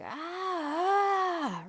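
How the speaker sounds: long, held-back "aah" imitating a scream; mock gut-wrenching scream. Retelling yelling in the bedroom, mock scream. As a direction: act out letting it all out, without full volume. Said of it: "gut-wrenching yell, scream, just let it all out".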